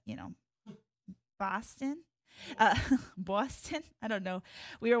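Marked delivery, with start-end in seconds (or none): 1.4-2.0 Boston said as "Pahston" in a mock Boston accent; a quick, half-hearted Boston accent on "Boston"; tentative mock Boston accent; bad Boston accent. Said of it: "working on my bad Boston accent". 2.6-3.8 laughing Boston try. Pretend. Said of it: "working on my bad Boston accent".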